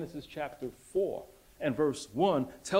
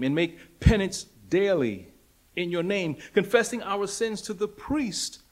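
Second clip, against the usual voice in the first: loud, raised pleading cry to the Lord; 4 semitones higher, 6 dB louder than usual. Retold or imitated. Church members pleading with the Lord, loud crying out. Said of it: "members of the church crying out".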